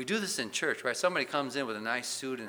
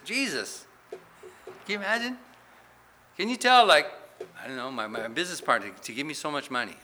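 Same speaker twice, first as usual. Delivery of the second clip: much higher, louder pushy plea; pleading petitioner; 4 semitones higher, 9 dB louder, faster than usual. Retold or imitated. A greedy man begging Jesus for his money share, pushy whine. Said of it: "Imagine asking Jesus this".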